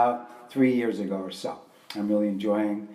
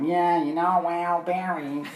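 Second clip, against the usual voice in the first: a quick hammed-up Brooklyn New York accent, higher and brighter in pitch; strong Brooklyn accent; 6 semitones higher, slower than usual. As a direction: toss off a joking thick Brooklyn accent. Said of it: "That kind of accent".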